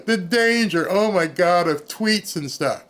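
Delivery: slow, laughing mock whimper; mock whiny official. Mocking the official, he whines slowly through laughs. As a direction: drag it out like a pampered bureaucrat. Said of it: "this woman's telling you".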